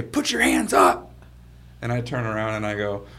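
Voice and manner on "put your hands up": mock police shout, firm and slow; police command. Officers barging into his bedroom, mock shouted command. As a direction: imitate an officer ordering hands up.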